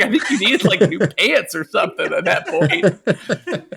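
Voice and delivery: giggling through a retold tease; laughing quote. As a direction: say it while laughing at him.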